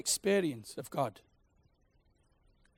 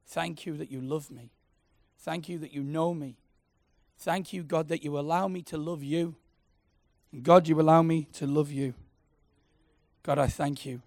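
gently leading a room in prayer, softer than speech; quiet prayer. Shown as a demonstration. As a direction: lead them in a hushed prayer, line by line. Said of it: "Can you say that with me?".

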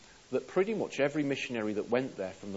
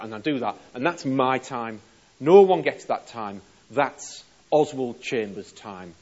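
louder, pushing every line hard; stubborn man refusing God, loud and firm; insistent loud protest; 10 dB louder than usual. Acted. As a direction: defend his holiday like it's untouchable. Chambers insists, defending his holiday.

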